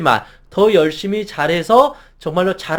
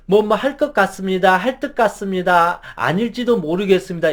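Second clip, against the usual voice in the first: trailing endings. Shown as a demonstration. Employee reporting to the boss, endings trailing off. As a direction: let each sentence ending fade away unsure. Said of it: "말끝을 흐리는 것을".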